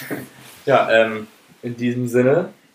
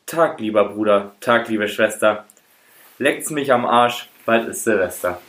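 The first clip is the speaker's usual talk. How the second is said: put-on slow, slurred drunk greeting; slurred drunk speech. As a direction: slur it like a tipsy Santa. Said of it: "Er lallte".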